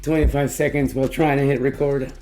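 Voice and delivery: lost voice, hoarse and tired. Real, not acted. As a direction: rasp through a worn-out voice. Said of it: "I lost my voice even further today".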